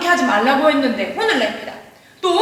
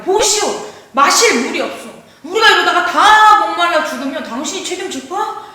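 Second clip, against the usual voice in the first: acted confrontational protest, pitched up a little; 따지는 군중; 3 semitones higher than usual. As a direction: play an angry crowd demanding answers. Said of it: "당장이라도 달려들 것 같이". (달려들듯 따지는 연기)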